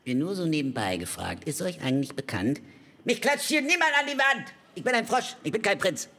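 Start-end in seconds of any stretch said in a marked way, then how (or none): 3.0-6.1 empörter Aufschrei. Acted. Frosch wehrt sich empört.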